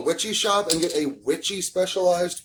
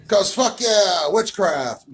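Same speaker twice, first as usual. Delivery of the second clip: excited; 4 semitones higher, slower than usual. Real, not acted. Enthusiastic exclamation.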